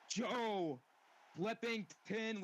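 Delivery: slow, loud, stretched-out name; drawn-out name call. Acted. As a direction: stretch the champion's name for the crowd. Announcer stretches champion's name.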